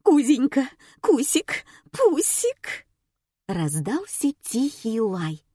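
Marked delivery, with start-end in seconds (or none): 0.0-2.9 high cooing pet call, climbing higher; acted owner calling her little dog. A narrator's reading. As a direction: call out pet names, rising each time. Owner calls her pet by nicknames.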